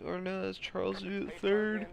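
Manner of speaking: ordinary talk, nothing marked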